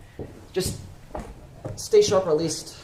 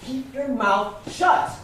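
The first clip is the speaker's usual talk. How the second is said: angry scolding; 9 semitones higher than usual. Acted. Teddy scolding Raymond for talking about the money, angry. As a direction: scold him hard for blabbing.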